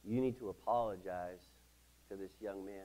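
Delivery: soft, low, gentle prompting; hushed inner-voice imitation; Holy Spirit. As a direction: say it quietly, falling away to a hush. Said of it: "the Holy Spirit whispered to my heart".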